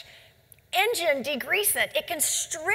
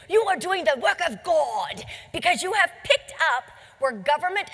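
put-on English accent. Quoting the toxicologist praising distributors, light English accent. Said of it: "in his English accent".

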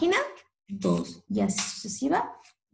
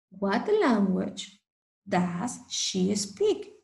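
slow clear model question; 4 semitones lower, slower than usual. Shown as a demonstration. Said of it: "slow model question for learners".

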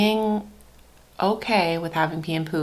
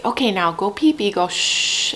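gentle coaxing; 2 semitones higher than usual. Shown as a demonstration. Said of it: "That noise helps them".

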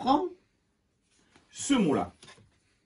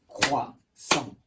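"Croissant" in two spaced beats, lower; syllable by syllable; 4 semitones lower, 3 dB quieter than usual. Shown as a demonstration. Teacher counting the beats, syllable by syllable. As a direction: separate Crois from sant in "Croissant". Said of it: "Un, deux".

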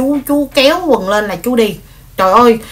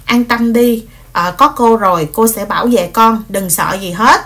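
retold comforting. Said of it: "cô cũng dỗ dành nó".

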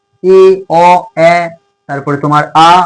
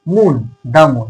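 slow example; 3 semitones lower, much slower than usual. Shown as a demonstration. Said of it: "দা টাকার ক্ষেত্রে বসবে".

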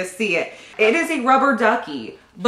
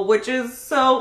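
voice cracking; 2 semitones higher than usual. Real, not acted. Vlogger moved by a baby book, voice cracking. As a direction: voice catching with real emotion. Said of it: "look, my voice cracked".

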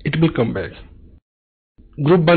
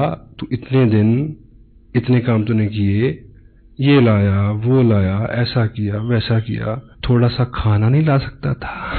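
dying parrot; 4 semitones lower than usual. Retold or imitated. Dying parrot's last words retold.

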